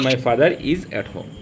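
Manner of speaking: 1 slow read-out. Shown as a demonstration. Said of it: "হোমের আগে at হয়".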